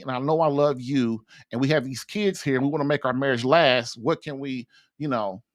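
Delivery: low, earnest and conciliatory; loving appeal. Shown as a demonstration. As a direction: reason tenderly with your wife, keeping it low. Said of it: "start it with loving messages like".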